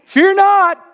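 high, forceful shout; yelled command. Shown as a demonstration. Preacher demonstrating fear not as a command, yelled. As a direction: yell it like an order from the stage. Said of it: "hear somebody yelling on stage".

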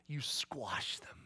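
mock whispered threat; hushed, slow murmur of squash them. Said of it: "It was whispered".

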